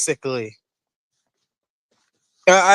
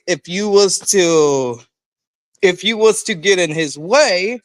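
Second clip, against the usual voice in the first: stuttering restart. Real, not acted. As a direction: trips over the words. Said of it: "sorry for stuttering".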